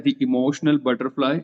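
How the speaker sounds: emotional butterfly said slowly, teacher checking; slow quiz answer; slow recap of the name. Shown as a demonstration. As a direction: drag the name out for the class. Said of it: "इसका नाम क्या है?".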